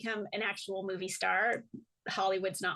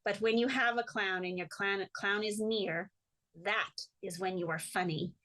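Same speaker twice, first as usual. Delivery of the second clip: lightly imitated French accent, in measured phrases; a hint of an old French teacher; old Frenchman's accent. Clown teacher explaining to the interviewer, light French accent. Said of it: "old French man with a funny accent".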